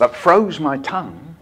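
slow, measured call-and-response line; poem recital. Shown as a demonstration. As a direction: recite slowly for children to echo. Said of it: "exactly as I do it".

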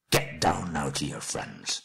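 low, slow grim order; slow dwarf command, pitched low; menacing dismissal. Acted. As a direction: order him off darkly. Thorin dismisses Bilbo with menace.

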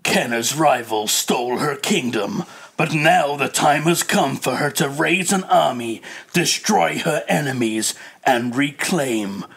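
dramatic fantasy blurb read, drawn out at the end; trailer voiceover. Acted. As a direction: announce an epic tale, stretching the last words. Reads out fantasy game blurb.

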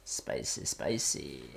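whispered. Real, not acted. Echoing spicy after a roll.

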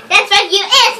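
laughing. Real, not acted. Laughing after being tickled.

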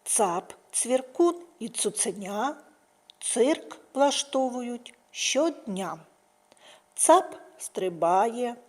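put-on slow playful reading for children; playful slow nursery rhyme; funny rhyme. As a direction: savour each line slowly.

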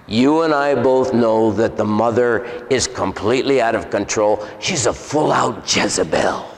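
a hint of an accusing demon; deep man's voice. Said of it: "in a deep man's voice".

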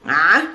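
Ah pushed through a tightened throat; isolated ayn sound. Shown as a demonstration. Teacher demonstrating the letter, Ah choked from the throat. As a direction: squeeze the air as you say Ah. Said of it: "That's the letter a".

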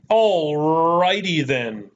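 a light Ace Ventura drawn out slow; a hint of Ace Ventura's catchphrase, slow; Ace Ventura impression. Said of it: "like Ace Ventura, Pet Detective".

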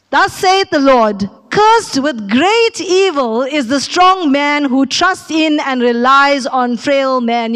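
slow, solemn reading of the verse; scripture reading. Acted. Pastor reads the verse to the congregation, slow and solemn. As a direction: read it slow and weighty like holy writ.

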